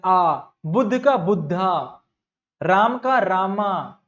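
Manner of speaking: slow, stretching the added aa in बुद्धा and रामा; mock how English speakers say बुद्धा; imitating English speakers. Shown as a demonstration. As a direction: demonstrate the tacked-on aa, drawn out. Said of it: "आ लगा देते हैं".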